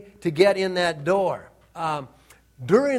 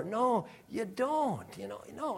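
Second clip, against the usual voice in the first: quiet firm no; 3 semitones higher, 10 dB quieter than usual. Acted. Repeated refusal.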